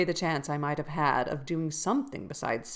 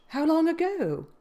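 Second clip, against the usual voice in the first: higher, astonished question; 11 semitones higher, 4 dB louder than usual. Acted. Lockwood stunned by news of Heathcliff's death, pitched up. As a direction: ask in shock. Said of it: "I exclaimed, astonished".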